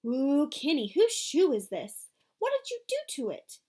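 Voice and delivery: put-on a young girl pressing her brother; little sister Joey, alarmed. A narrator's reading. Joey voiced again.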